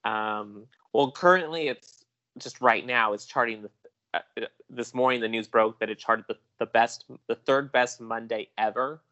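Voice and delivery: slow, measured news reporter delivery. Acted. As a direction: read it like a TV box office report. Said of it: "Let me slip on my reporter voice".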